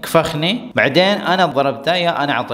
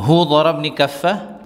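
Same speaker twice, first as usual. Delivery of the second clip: slow drill; slower than usual. Shown as a demonstration. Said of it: "teacher drills phrase slowly".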